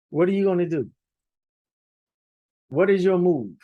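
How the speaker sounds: high teasing Yiddish singsong; yiddish accent. Pretend. Teasing question to students.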